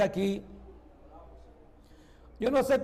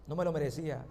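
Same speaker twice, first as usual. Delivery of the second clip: low, soft and humbled; lowered voice of a humble believer; humble confession; 6 semitones lower, 8 dB quieter, faster than usual. Acted. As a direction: admit unworthiness quietly, with a long pause. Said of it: "Las personas humildes dirán".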